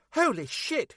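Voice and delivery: out of breath; gasped out after running; panting. Acted. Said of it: "she said, panting".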